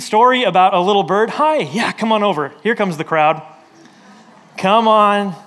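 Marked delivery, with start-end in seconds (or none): 4.6-5.3 louder, drawn-out call. Real, not acted. Pastor to a crowd of kids coming up, calling out. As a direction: wave them in with a raised voice.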